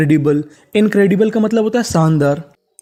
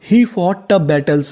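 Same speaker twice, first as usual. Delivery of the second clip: careful slow sentence; slow model reading; much slower than usual. Shown as a demonstration. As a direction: read very slowly, word by word. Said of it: "full sentence read".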